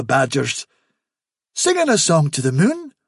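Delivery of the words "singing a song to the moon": high, eager rabbit witness. A narrator's reading. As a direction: repeat it keenly, pitched up. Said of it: "said Hafsa eagerly".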